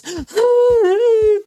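sharp, loud, high gasp; frightened gasp. Retold or imitated. Nicole hearing her captor crying upstairs, a loud frightened gasp. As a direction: gasp in shock.

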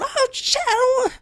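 very high, panicked squeal; mock freaking out. Linda freaking out as the man runs out, very high. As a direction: shriek it in a thin voice. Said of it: "all freaking out".

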